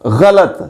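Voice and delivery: गलत as gha-lat, rhythm of falak; correct pronunciation. Shown as a demonstration. Teacher matching it to rhyming words, गलत as gha-lat. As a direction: say गलत in two short syllables, gha-lat. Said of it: "बर वज़न".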